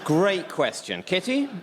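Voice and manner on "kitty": high sing-song name call. Acted. Host calling on a panelist, bright high call.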